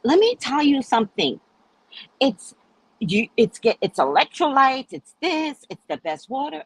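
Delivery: mildly hammed-up insisting; insistent pitch. Retold shop man insisting on quality.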